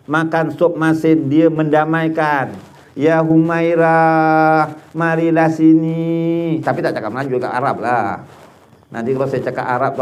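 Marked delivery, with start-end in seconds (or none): 3.0-6.6 very slow, gentle calling to a wife; tender call. Acted. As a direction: Prophet gently calls Aisyah to make peace, slow and tender. Prophet gently calling his wife.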